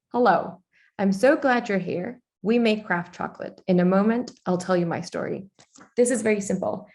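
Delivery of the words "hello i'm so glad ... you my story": relaxed with contractions "I'm", "I'll"; conversational reading. Shown as a demonstration. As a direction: talk it like greeting a friend. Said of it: "listen to the change".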